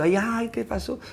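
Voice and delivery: high mock wail; acted whimpering dismay; trembling and crying. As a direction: imitate a frightened, tearful child. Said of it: "cuando estaba temblando y llorando".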